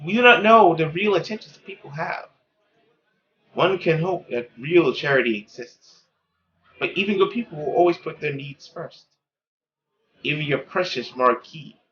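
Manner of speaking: a weary mother cutting down hope; cynical mother. Acted. Mother lectures her daughter.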